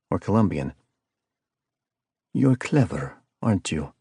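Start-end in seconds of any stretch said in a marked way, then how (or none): 2.3-3.9 lightly voiced cold caller with a hint of South American accent; icy calm villain. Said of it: "The tone was calm and icy cold".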